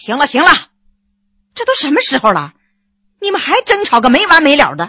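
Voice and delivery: sharp, barked delivery. A character cuts into a quarrel between others, with a sharp bark. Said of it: "一英断喝一声".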